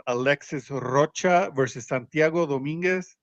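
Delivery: Alexis Rocha versus Santiago Dominguez rolling smoothly off the tongue; rolled off the tongue. Real, not acted. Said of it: "that just rolled off your tongue".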